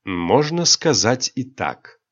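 icy tone. Acted. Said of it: "ледяным тоном ответил Рионар".

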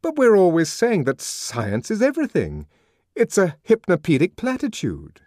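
can't believe what he's hearing; young man protesting in disbelief; astonished protest. A narrator's reading. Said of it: "in astonishment".

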